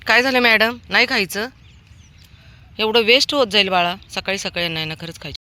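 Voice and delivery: high, loud fond scolding of the dog; coaxing a pet. Real, not acted. Feeder scolds Lali fondly to eat before she leaves, high loud pet talk. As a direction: coax and mock-warn the dog to eat up.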